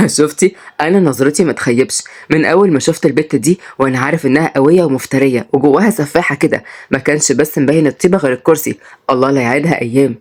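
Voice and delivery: a hint of a joking man; amused husband. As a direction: tease in a low voice. Husband teasing, figure of the story.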